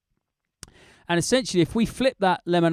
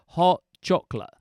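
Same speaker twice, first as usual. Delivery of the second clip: rhythm example. Shown as a demonstration. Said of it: "So that's what I'm doing here".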